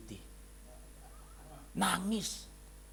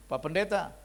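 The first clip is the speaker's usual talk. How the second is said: complaining wife; 6 semitones higher than usual. Retold or imitated. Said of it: "istrinya bilang gini".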